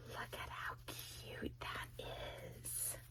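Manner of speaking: gasped, whispered awe; hushed, tearful wonder; breathless whisper. Real, not acted. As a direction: whisper it on a gasp of delight. Breathless gasp at gift.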